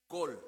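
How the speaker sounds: col, said slowly as the Hebrew word for voice. Shown as a demonstration. Preacher teaching the congregation the Hebrew word, careful. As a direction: say col, one clean syllable. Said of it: "En hebreo es col".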